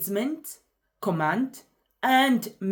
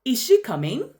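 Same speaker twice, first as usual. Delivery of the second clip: "coming" lifts high at the end; louder, higher question, rising on "coming"; rising intonation; 5 semitones higher, 5 dB louder than usual. Shown as a demonstration. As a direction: ask it with the pitch climbing through "coming". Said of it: "Rising intonation takes a rise".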